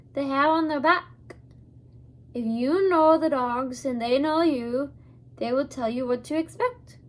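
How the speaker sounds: put-on a light, amateur Scottish accent for the old man; old Abner steadies the hidden children in a mild Scottish accent. Abner, lightly Scottish, tells them to stay in the wagon. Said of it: "not very fluent in Scottish accents".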